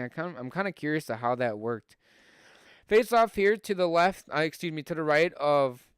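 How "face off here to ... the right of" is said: brisk hockey play-by-play call; live play-by-play. Acted. Streamer calling the hockey game for his viewers, live play-by-play.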